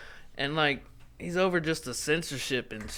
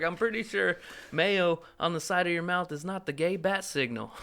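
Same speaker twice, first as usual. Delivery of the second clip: imitating comedian; 6 semitones higher than usual. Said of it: "I can't do it as good as him".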